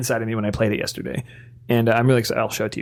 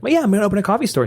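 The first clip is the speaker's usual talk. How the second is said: eager; 8 semitones higher, much faster than usual. Retold or imitated. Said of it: "And you're like".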